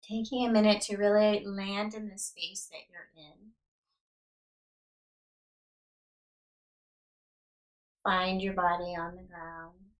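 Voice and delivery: unhurried yoga nidra guidance with long pauses; guided meditation. Real, not acted. Yoga teacher settling listeners onto the ground, calm guided meditation. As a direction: guide them into rest, leaving space after each instruction.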